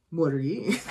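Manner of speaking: "what are you" at normal pitch, rising at the end; question thrown back. Retold or imitated. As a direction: turn the question back on the asker. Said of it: "he answered a question with a question".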